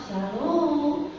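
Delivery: exaggerated gentle Javanese-style Shalom; over-the-top soft greeting. Pastor mimicking Javanese gentleness, hammed-up soft greeting. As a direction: overdo the softness. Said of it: "Waduh, lebay banget".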